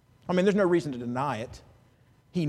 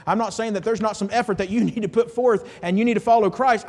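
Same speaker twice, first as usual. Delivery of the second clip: usual speaking voice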